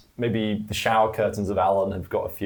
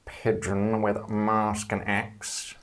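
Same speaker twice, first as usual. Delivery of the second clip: serpent voice. Acted. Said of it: "the serpent voice".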